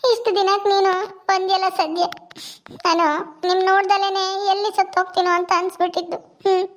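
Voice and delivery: acted tearful relief at seeing mother; tearful lament. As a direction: daughter lamenting through mild sobs. Weeping daughter laments to her visiting mother.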